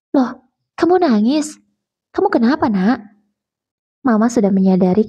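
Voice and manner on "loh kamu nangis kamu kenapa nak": notice the tears and worry; surprised worried mother. Acted. Mother sees daughter crying. (ibu kaget melihat anaknya menangis)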